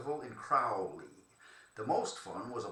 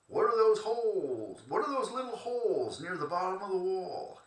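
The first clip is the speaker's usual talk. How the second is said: put-on a first try at a Louisiana accent, pitched higher and louder; Louisiana accent attempt; 7 semitones higher, 6 dB louder than usual. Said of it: "I can't do a Louisiana accent".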